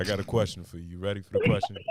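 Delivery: put-on masculine voice. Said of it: "Nigga put his masculine voice on".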